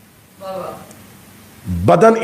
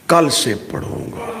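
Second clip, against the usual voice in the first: inner voice giving in; 5 dB quieter than usual. Acted. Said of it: "اور آخری تھپکی آئی".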